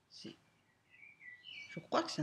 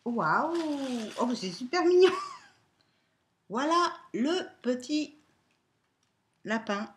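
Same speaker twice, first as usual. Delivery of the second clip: high, loud gushing over cuteness; excited cooing; 6 semitones higher, 9 dB louder, slower than usual. Real, not acted. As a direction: squeal at something adorable. Unwrapping a cute bunny.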